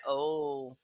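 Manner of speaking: high, loud mock revelation; realizing. Recalling hearing Green angry, loud mock realization. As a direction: act out the moment it clicks. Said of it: "I was like".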